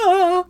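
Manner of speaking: alarmed cry. Retold or imitated. Hermione cries out in alarm.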